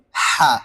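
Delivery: হা from mid-throat, strongly aspirated; isolated throaty হা; demonstrating articulation. Shown as a demonstration. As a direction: push হা out from the middle of the throat. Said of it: "হলকের মধ্যখান থেকে".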